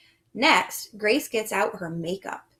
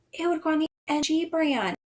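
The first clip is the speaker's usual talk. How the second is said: mock surprise; 6 semitones higher, faster than usual. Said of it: "gasp of mock surprise".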